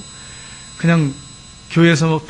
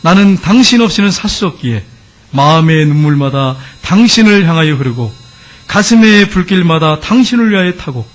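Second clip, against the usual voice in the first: impassioned, drawn-out devotional declamation; poem recital; 4 dB louder than usual. Retold or imitated. Converted husband reciting his poem to the Lord, fervent declamation. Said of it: "그러더니 이분이 시를 썼어요".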